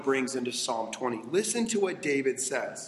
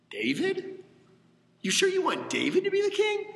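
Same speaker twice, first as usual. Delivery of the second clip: mocking, disbelieving big brother, much higher; scoffing older brother; 4 semitones higher than usual. Older brothers doubting David.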